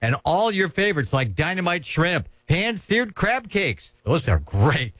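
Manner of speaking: upbeat live radio ad read. Acted. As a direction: sell it like a radio spot.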